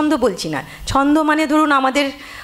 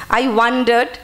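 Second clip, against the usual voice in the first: "wandered" with weight on its first syllable; stress on WAN; much slower than usual. Shown as a demonstration. Teacher demonstrating meter, first syllable of "wandered" stressed. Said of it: "ওয়ানটাতে আমরা stress দিচ্ছি".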